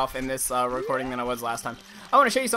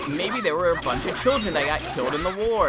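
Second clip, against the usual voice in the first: creeped out; 3 semitones higher, 4 dB louder than usual. Retold or imitated. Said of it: "you're like".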